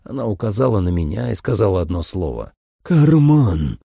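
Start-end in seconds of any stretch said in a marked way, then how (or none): 2.8-3.8 loud bark of one word; growled command. A narrator's reading. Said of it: "рычащий и низкий".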